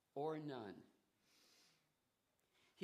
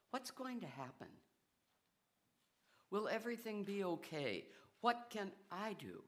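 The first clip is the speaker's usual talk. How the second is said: anxious worry; 5 semitones higher, faster than usual. Acted. Anxious questions quoted, fast, high.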